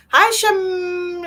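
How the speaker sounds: high yelp as the name trips her; startled break. Real, not acted. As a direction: voice jumps up as she stumbles. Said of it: "this name's gonna get me".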